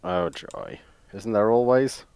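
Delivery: usual speaking voice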